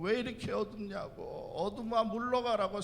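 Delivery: high-pitched, half-hearted mock yell; mock shouting. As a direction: imitate disciples yelling at the darkness. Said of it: "소리, 소리를 고래고래 질렀지만".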